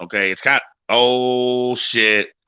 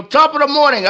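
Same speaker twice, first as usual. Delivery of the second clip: mock Irish accent; 13 semitones higher than usual. Shown as a demonstration. Trading bad accent demos.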